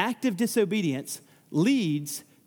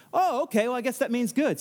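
lightly acted naive acceptance, pitched up; mock agreeable, higher voice; 5 semitones higher than usual. Danites take the priest's answer as a blessing, naively accepting.

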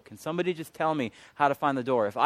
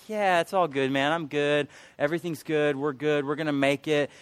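overconfident reassurance; 3 semitones higher, 5 dB louder than usual. Retold or imitated. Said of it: "always like".

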